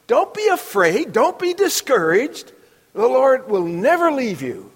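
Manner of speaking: rally frightened troops at the border; rousing exhortation. Retold or imitated. Joshua rallying the people at the edge of the land, loud and rousing.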